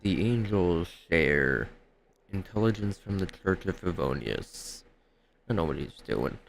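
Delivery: quiet musing. Acted. Traveler privately guessing what the captain is up to, quietly musing. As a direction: think it over under your breath.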